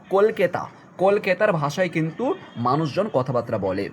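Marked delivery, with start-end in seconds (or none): 0.1-0.6 কলকেতা said as kol-ke-ta, stressing the e; old Calcutta pronunciation. Shown as a demonstration. Teacher repeats কলকেতা so the students catch it. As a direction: repeat কলকেতা clearly for the class. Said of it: "কি বলছে শব্দটা দেখো".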